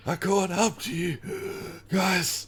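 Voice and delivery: high, loud cheerful voice; Lulu's voice. Acted. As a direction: chirp it out brightly.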